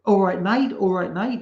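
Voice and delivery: hammed-up New Zealand tough guy impersonation; mock New Zealand accent. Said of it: "he's got this, like, z-, z-, New Zealand".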